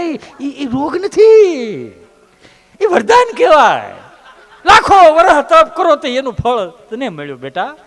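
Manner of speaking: laughing comfort. Acted. Doctor laughing through comfort.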